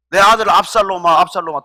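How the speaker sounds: mild acted lament, falling away on the repeat; retold wailing. David mourns his son Absalom, retold as a mild lament. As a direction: call out in understated mock grief, then sink. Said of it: "또 통곡을 합니다".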